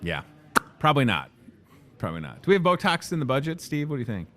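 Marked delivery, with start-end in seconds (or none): 2.0-2.4 softer, lower repeat; quiet lower echo. Shown as a demonstration. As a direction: say it again under your breath. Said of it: "repeats it quieter".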